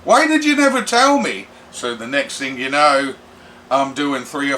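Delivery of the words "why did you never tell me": imitating Tyler. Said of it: "And he's like".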